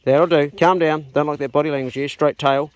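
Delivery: loud, firm dog commands. Real, not acted. Farmer reining in rough-playing dogs, loud firm command. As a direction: bark the orders so the dogs settle.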